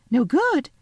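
put-on a touch of alarm in a girl's voice; rather frightened. A narrator's reading. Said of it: "feeling rather frightened".

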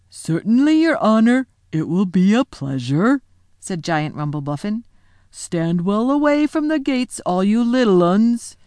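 loud, booming yokel giant; eager giant. Acted. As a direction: boom out a cheerful yes.

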